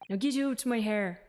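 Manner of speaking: brusque put-on Scottish governor; rough Scottish accent. Governor refusing to speak with visitors, rough Scottish accent. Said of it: "they write it as, like, a Scottish person".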